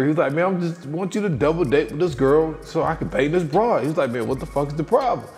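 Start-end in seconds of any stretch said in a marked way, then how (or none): 0.3-3.8 higher, insistent mock pleading; acted-out exasperated appeal; retold argument. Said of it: "sitting there arguing". 4.1-5.3 quick mock-exasperated demand; acted-out impatient challenge; retold argument. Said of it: "sitting there arguing".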